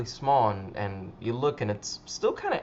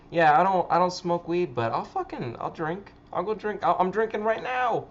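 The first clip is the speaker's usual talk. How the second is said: raised pitch, building to a higher finish; mock eager drinker; 6 semitones higher, 4 dB louder than usual. Imitating people who refuse weed but drink, mock eagerness. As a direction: imitate someone keen to drink.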